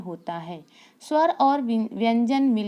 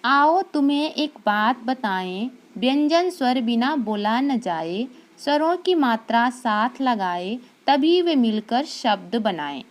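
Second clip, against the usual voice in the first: poem recitation; 3 dB louder than usual. Shown as a demonstration. Teacher reads a rhyme to her class, in a sing-song recitation. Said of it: "देखिए, मैं पढ़ रही हूँ".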